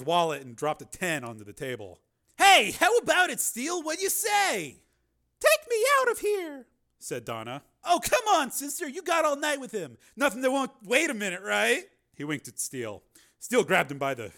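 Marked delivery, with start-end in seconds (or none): 2.4-11.9 higher, loud, eager man's voice; a nosy fan barging in; pushy fan. Acted. Bar patron interrupting Steele, pushy.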